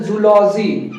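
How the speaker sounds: जूलॉजी with a 'zoo' first syllable; common mispronunciation. Shown as a demonstration. Teacher shows students the common way, mispronounced. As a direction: say जूलॉजी as zoo-LAW-jee, 'zoo' up front. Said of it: "generally लोग क्या बोलते हैं".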